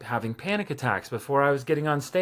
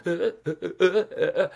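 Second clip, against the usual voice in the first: shaky, higher stammering uhs like holding back tears; imitating nervous crying; 5 semitones higher, faster than usual. Recalling a nervous class share, shaky near-crying stammer. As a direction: mimic a voice about to cry from nerves. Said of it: "it sounded like I was crying".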